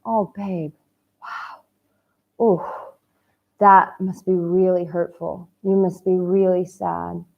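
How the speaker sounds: soft, gentle comfort for someone hurting; empathetic. Shown as a demonstration. Coach comforting a heartbroken single man, soft and empathetic. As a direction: soothe a lonely friend with real compassion. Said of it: "You hear that empathy".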